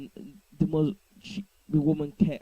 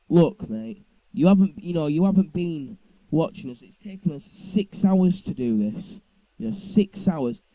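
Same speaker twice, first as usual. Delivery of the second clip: raised, heated telling-off, louder at the start; retold angry outburst; 3 semitones higher, 5 dB louder than usual. Narrator retelling how he told off the neighbour, angrily. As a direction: snap back at him, pushing the point hard. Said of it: "I lost my temper big time".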